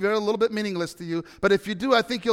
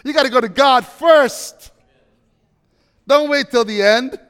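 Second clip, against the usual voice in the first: louder urgent voice of God; God's voice, urgent; 4 semitones higher, 5 dB louder than usual. Retold or imitated. Pastor voicing God to the congregation, loud and urgent. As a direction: press it hard, like God insisting. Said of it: "And God's saying".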